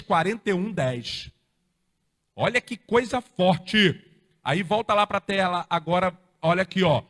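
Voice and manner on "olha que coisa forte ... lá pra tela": usual speaking voice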